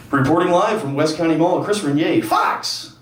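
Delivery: hammed-up TV sign-off with drawn-out pauses; Chris Renier. Reporter live from the mall, over-the-top sign-off. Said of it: "It's over the top".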